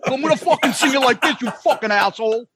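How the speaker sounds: lightly mimicked cussing rock drummer; mock-irritated impression of a bandmate; put-on grumbling musician voice; Peter voice. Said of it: "he did it in the Peter voice".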